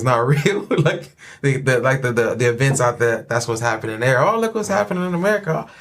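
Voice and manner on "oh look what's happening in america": bad Kiwi accent, high and quick; lightly put-on New Zealand accent. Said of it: "my bad Kiwi accent".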